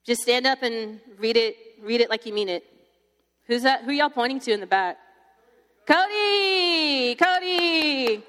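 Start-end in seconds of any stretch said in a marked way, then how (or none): 5.9-8.2 high, long-drawn name call, falling away. Real, not acted. Speaker summoning a volunteer from the back, calling out. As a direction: sing out the name to the back of the room.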